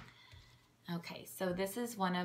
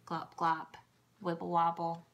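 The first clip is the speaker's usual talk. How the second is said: sound words; 5 dB louder than usual. Shown as a demonstration. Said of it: "there's emphasis on sounds".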